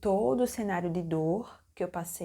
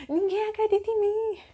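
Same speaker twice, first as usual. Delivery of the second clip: high, loud hammed-up wail; mock screaming; 13 semitones higher, 7 dB louder than usual. Labouring woman protesting to everyone around, loud mock scream. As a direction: imitate a desperate, indignant shriek. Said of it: "eu comecei a gritar".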